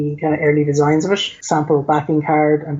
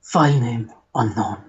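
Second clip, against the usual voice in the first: lightly put-on Spanish accent, measured reading; mock-dramatic Spanish-accented announcement, with pauses between phrases; Antonio Banderas. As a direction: read it out in a hint of a suave Spanish accent. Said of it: "I'm gonna put on my Antonio Banderas voice".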